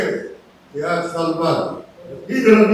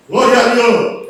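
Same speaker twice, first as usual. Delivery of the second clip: slow, mildly raised cry of praise; retold praise shout; 4 dB louder, slower than usual. Healed man praising God for sight, slow retold shout. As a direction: draw out the praise as an imitated call. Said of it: "Después era".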